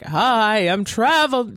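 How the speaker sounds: lightly voiced mystic medium; a hint of a spooky psychic; seance medium. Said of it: "she says it exactly like that".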